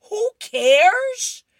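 sudden very high, very loud yell; a furious yelled echo of her friend. Acted. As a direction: throw it back at her at the top of your lungs. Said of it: "Peppermint Patty's in front of her and yells".

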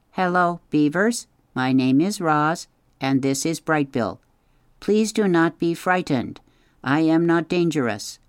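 a gentle machine greeting strangers politely; robot Roz. Acted. Narrator voices the robot Roz.

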